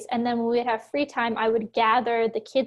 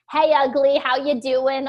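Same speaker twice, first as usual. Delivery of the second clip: agent's voice; 5 dB louder than usual. Retold or imitated. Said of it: "this was her voice".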